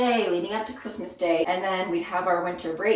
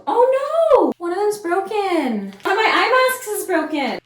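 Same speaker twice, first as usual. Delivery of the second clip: dismayed surprise; 11 semitones higher, 8 dB louder than usual. Real, not acted. Finds eye mask broken.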